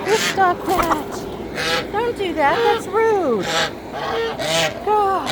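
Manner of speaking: high-pitched telling-off; scolding a chicken. Real, not acted.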